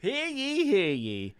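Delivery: high herald's call; mock royal decree. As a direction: announce like a town crier.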